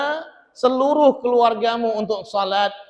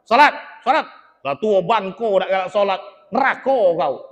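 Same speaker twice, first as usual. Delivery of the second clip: nagging angry wife. Retold or imitated. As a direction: scold him like a cross wife. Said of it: "ibu jangan marah-marah".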